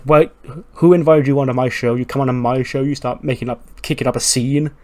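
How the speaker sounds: hammed-up outrage at an intruder; a playful furious host shouting; mock angry yell. Kevin Owens yelling at rival.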